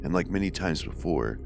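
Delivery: measured read-aloud storytelling; steady narrator reading a first-person tale; story narration. A narrator's reading. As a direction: read a ghost story aloud, evenly paced.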